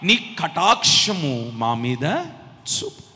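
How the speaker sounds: begging, rising to a loud cry; pleading captain. Retold or imitated. Kneeling captain begging the man of God for mercy, desperate loud plea. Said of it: "దైవజనుడి ఎదుట మోకరించి".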